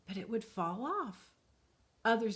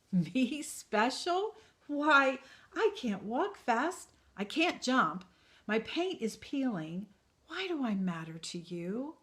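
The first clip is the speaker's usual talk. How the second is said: put-on high incredulous boy; 6 semitones higher, 7 dB louder than usual. Punchinello doubts himself.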